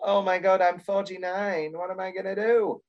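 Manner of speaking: lightly done moaning-Myrtle wail; mock a self-pitying moan; a hint of a whiny aging woman. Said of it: "this shrill, goddamn, you know, moaning Myrtle".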